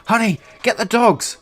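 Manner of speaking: high, slow shrieking call to her husband; retold scream. Old woman screaming for her husband to fetch the dogs. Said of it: "she gasps and screams back at her husband".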